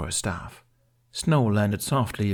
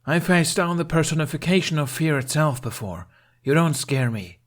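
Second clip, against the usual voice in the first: higher, raised defiant shout into the wind; defiant bellow; 8 semitones higher, 4 dB louder than usual. A narrator's reading. Jack calls into the blizzard at Snow, bellowing. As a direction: hurl it at the storm, unafraid. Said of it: "he bellowed into the wind".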